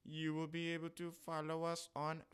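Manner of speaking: lifted, put-on playful voice; a jokey high-pitched echo of the line. Shown as a demonstration.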